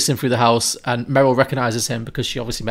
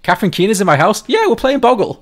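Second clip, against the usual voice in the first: laughing; 10 semitones higher, 6 dB louder than usual. Retold or imitated. Acted quote of excited guest.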